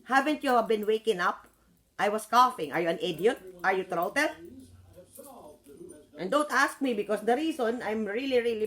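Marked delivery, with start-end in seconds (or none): 0.0-4.3 angry retort. Retold or imitated. Retorting to pestering people.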